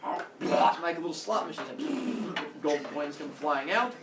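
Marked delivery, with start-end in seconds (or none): 0.0-0.8 mouth full. Acted. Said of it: "her cheeks are all full".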